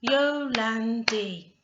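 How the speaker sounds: YOLANDI slow and loud, in three parts; syllable by syllable. Shown as a demonstration. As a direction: break YOLANDI into Yo-lan-di for counting. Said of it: "How many syllables?".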